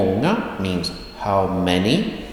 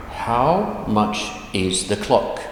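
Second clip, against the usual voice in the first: slow literal gloss; slower than usual. Shown as a demonstration. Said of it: "That's literally what it means".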